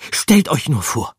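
high, loud excited rat voice; rat calling out. A narrator's reading. Rat bursting into the den, calling loud and high. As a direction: burst in shouting the news. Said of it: "rief Gruyère".

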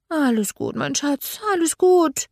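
high-pitched hurried comforting; soothing. A narrator's reading. Godmother calming crying Archie, anxiously soothing. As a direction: try to calm a bawling toddler. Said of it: "versuchte ich ihn zu beruhigen".

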